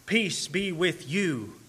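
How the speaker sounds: Peace drawn out slowly and gently; slow tender blessing. Retold or imitated. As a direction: say it slowly, ministering to one grieving man. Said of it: "in order to minister directly to him".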